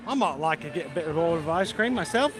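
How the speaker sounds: prim mock-British reply; bad British accent. Brothers shopping for ice cream, bad British accent. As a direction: answer in an exaggerated fake British accent. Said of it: "bad British accent".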